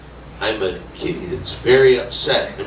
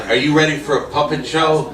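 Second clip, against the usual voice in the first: emcee question; 3 semitones higher than usual. Acted. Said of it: "I said".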